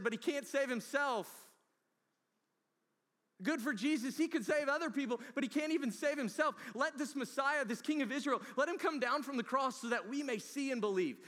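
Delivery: loud, high, sneering taunt; jeering crowd. Retold or imitated. The crowd mocking Jesus on the cross, loud high sneer. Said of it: "the mocking in their tone".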